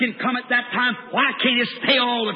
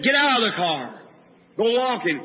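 even, restrained command; inner prompting. Retold or imitated. An inner something tells the preacher to leave the car, even command. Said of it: "something said".

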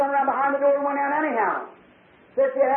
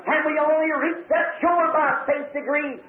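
solemn hymn recitation. Retold or imitated. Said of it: "He said".

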